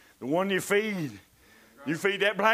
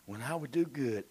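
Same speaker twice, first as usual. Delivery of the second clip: ordinary talk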